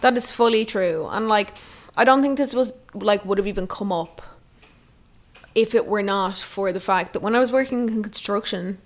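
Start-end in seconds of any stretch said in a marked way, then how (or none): 1.1-8.8 stammering. Real, not acted. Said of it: "why am I stammering".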